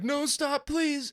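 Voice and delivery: high-pitched pleading squeal. Retold or imitated. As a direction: squeak it out like being tickled. Imitating tickled person.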